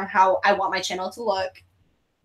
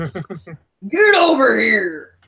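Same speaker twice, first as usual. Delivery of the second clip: slow drawn out growl; Scorpion catchphrase; 3 dB louder, much slower than usual. Pretend. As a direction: drag it out like a fighting game.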